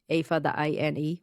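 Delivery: letters "A Fada I N E" spelled one by one; spelling a name for a friend, letter by letter. Shown as a demonstration. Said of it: "It's A with a little accent".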